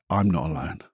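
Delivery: quietly, gently, to himself; soft affirmation. Shown as a demonstration. Reciting his daily words to himself, softly. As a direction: murmur it like a private reassurance. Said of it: "and I normally say".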